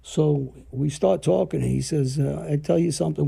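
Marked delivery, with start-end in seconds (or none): 2.5-3.3 light Italian accent, imitating an old neighbor; hint at an old man's Italian accent; retold line in a mild Italian accent. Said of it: "with an accent, Italian accent".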